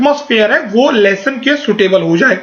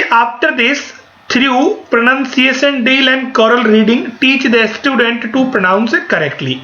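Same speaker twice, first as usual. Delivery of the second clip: slow, careful slide reading; much slower than usual. Shown as a demonstration. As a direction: spell it out slowly for notes. Reads slide text aloud. (धीमी गति से slide पढ़ना)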